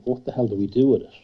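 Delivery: loud and fast, exasperated; exasperated outburst. Retold or imitated. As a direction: blurt it out in frustration. Retold exasperation.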